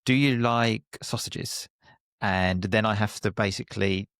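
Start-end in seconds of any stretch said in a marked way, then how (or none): 0.1-1.7 teacher drill question. Shown as a demonstration. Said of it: "I read a question and say, for example".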